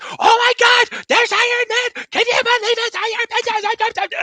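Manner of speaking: very high squealing mock-kid voice; excited kid. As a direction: imitate an overexcited child gushing mid-movie. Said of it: "there's one kid, he was like".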